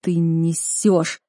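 slow, breathless disbelief; gasping. A narrator's reading. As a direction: choke the words out. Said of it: "задыхался я".

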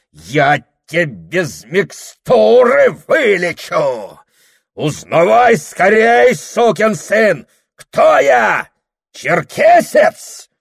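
всё выше и громче; требуй признания; злобный крик. Acted. Дьякон дёргает бороду. (дьякон орёт, дёргая Прохора за бороду)

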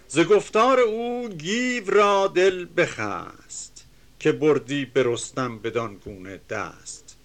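measured, chanting reading of epic verse; reciting classical Persian verse; poem recitation. Acted. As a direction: declaim the couplets with rhythm.

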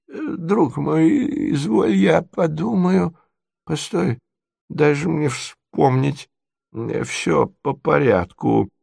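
high, slow voice with long halts; doddering prince, pondering. Acted. Prince tries to recall his dream, high and halting. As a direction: grope haltingly through a hazy memory.

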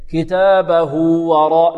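slow, lengthen the end of كتابه to "hū" before وراء; pronounced linking waw. Shown as a demonstration. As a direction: join كتابه to وراء with a long ū. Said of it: "بواو لفظية". (وصل هاء كتابه بواو مدية)

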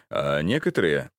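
plain reading voice

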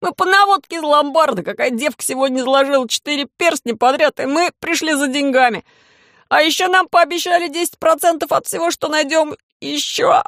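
high, terrified falsetto squeal. Acted. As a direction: squeal it out in panic. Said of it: "парень заверещал фальцетом".

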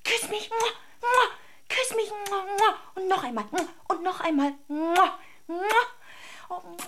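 smother the little dog with kisses in a high voice; baby talk to a dog. Acted. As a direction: owner cooing kisses at her lapdog. Cooing to the found dog.

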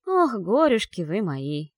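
put-on slow grumbling old servant; grumble, fussing and put-upon. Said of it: "проворчал мгновенно появившийся за фикусом Морф".

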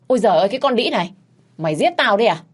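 high, loud, fast shriek of pain and rage. Acted. Miệt shrieks at her daughter-in-law after being tripped, loud and fast. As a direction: screech it as she hits the floor. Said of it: "mụ rít lên".

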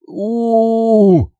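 long high choked "ooo"; choking cry. Acted. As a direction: draw out a strangled howl. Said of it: "давлюсь я". (сдавленный высокий вой)

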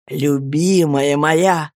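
slow, tender endearment; fond exclamation. Acted. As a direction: linger on it lovingly. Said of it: "воскликнул я".

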